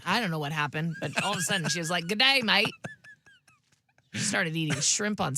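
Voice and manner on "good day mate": put-on Aussie accent. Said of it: "Aussie accent".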